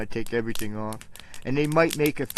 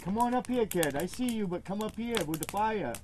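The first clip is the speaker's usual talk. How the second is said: higher, coaxing call to a shy dog; 6 semitones higher, 5 dB quieter than usual. Real, not acted. Owner coaxing his nervous dog toward the fire, higher and coaxing. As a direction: coax him gently up to the fire.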